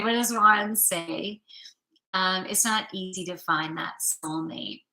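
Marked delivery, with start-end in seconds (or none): 2.5-4.8 whispered card message; whispering. Acted. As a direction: breathe it out as a secret. Reading the card's message.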